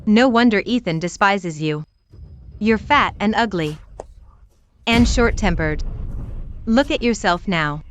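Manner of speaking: cruel, gloating taunts; reality show fight. Acted. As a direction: sneer and mock her weight. Rival taunts the wife.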